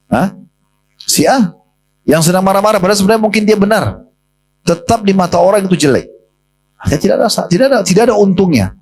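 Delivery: suara naik tinggi, penuh penekanan; ceramah menggebu. Acted. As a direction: tegaskan poinnya dengan nada tinggi. Preacher stresses the point. (ceramah bersemangat bernada tinggi)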